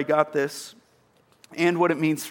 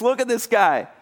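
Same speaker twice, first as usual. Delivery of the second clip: high, thrilled, over-the-moon voice; excited Jesus; 8 semitones higher than usual. Retold or imitated. Preacher voicing Jesus thrilled by faith, high and excited. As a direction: celebrate the guy to the crowd. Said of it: "He turns to everyone around and he says".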